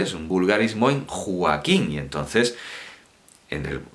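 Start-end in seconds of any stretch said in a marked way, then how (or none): 1.1-1.9 "Joaquín" run together as Jua-quín; vulgar diphthong. Shown as a demonstration. Teacher showing the vulgarism, saying Joaquín as two syllables, Jua-quín. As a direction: glide the o of "Joaquín" into a w sound. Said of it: "lo convierten vulgarmente".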